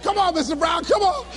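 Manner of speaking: imitated stagehand, rising urgency; urgent coaxing. Staff pull speaker off stage, urging. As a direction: coax someone away, pitch climbing.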